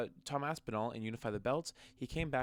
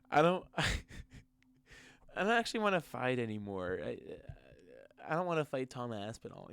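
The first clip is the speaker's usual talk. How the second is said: laughing mock of Jones. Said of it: "John Jones was like".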